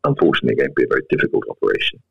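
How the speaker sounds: low, grave doctor breaking bad news; sinister doctor voice. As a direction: deliver doom gravely, a hint sinister. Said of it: "in a very sinister doctor voice".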